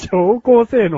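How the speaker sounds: slow robotic announcement. Pretend. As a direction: spell it out slowly, like a machine. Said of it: "ロボットな".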